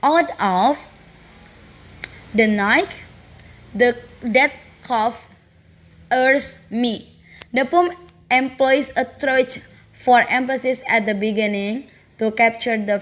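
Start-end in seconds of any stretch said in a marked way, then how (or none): 0.0-7.1 slow, stressed reading of the first line; scanning the line aloud, stressing each beat; metrical stress demo. Shown as a demonstration. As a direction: lean on the beats of "Out of the night". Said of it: "The first line displays both these qualities".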